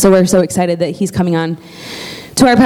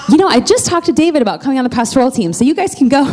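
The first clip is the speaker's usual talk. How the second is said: joking mock dismissal; 5 semitones higher, faster than usual. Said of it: "And I was like".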